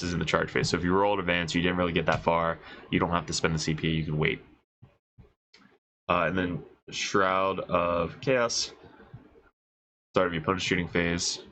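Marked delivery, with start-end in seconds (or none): 6.1-11.4 congested, stuffy-nosed reading; blocked nose. Real, not acted. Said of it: "Sorry, I'm so congested".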